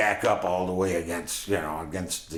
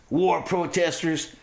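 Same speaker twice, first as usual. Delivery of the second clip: high, drawn-out mock yell; cursing and threatening; 10 semitones higher than usual. Men in a car jeering at hidden hitchhikers, high slow threatening mock shout. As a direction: spit it as a slow, high-pitched insult. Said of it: "cursing and threatening us".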